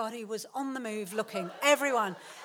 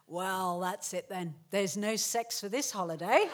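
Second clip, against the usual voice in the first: mock maudlin; 5 semitones lower than usual. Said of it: "he was just really maudlin".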